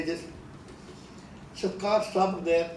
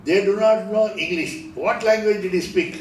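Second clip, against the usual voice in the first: challenging question; 5 semitones higher, 5 dB louder than usual. Retold or imitated.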